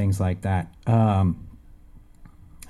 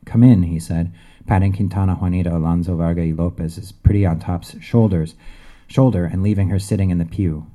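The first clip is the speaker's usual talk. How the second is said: steady, measured reading of a gritty crime scene; story reading; 3 dB louder, faster than usual. Acted. Author reading his novel to an audience, in an even narrating voice. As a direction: read it like an author at a bookstore event.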